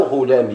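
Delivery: "غلامي" said as ghulamiya, ending on short a; final ya with fatha. Shown as a demonstration. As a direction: open the ya of "غلامي" into -ya. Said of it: "مبني على الفتح".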